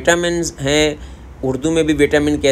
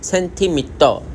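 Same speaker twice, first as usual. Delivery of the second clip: Korean accent; 2 semitones higher, slower than usual. Shown as a demonstration. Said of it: "Korean centimetre ही कहते हैं".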